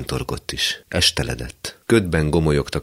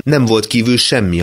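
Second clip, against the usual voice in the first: plain reading voice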